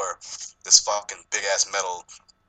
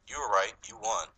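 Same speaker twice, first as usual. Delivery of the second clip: cold quiet; 5 dB quieter than usual. Retold or imitated. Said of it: "Byung-Hun Lee just tells him".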